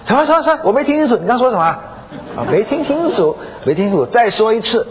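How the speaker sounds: high, disbelieving demand to repeat it; mock-incredulous, pitched right up; husband taken aback. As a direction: act out a stunned husband challenging what he heard. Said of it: "哇，这丈夫一听".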